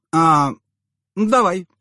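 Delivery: high giggling yes; giggly agreement. A narrator's reading. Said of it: "сговорчиво хихикнула она".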